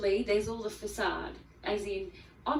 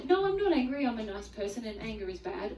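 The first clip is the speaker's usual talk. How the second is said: defensive denial. Retold or imitated. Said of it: "We go either".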